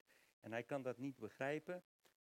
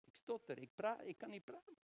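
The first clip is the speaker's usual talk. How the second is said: reluctant Moses; 6 semitones higher than usual. Acted. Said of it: "allerlei excuses heeft en zegt van".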